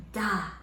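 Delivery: a crisp "Da" with a puff of air; demonstrating a breathy "Da". Shown as a demonstration. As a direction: pop the d of "Da" so air hits the hand. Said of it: "put your hand in front of your mouth and go".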